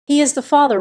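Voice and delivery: chirpy nurse checking the facts; clear and bright. A narrator's reading. Nurse asks the new mother, clear and bright. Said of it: "I hear the nurse's voice clear and bright".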